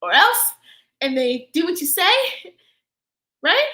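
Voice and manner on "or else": mock threat. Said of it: "You tell people".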